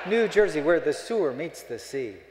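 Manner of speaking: loud punchline. Acted. Punchline jab at New Jersey.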